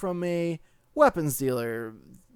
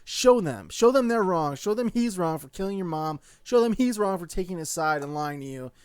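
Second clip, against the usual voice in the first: rally a fallen hero from the seats; urging him on; 2 semitones higher, 3 dB louder than usual. Retold or imitated. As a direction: fan urging the hero to get up. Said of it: "where I'm like".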